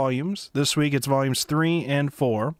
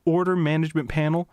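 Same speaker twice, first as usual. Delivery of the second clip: mock-enthusiastic spam reading; sarcastic reading; 2 semitones higher than usual. Shown as a demonstration. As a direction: read the bot message with fake excitement. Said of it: "I was gonna read it sarcastically".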